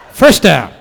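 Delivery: loud official's shout; ref's call. Acted. Referee signalling the play, loud shout. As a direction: bark the call out to the stadium.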